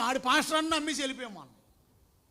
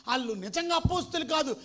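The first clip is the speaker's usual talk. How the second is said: ordinary talk, nothing marked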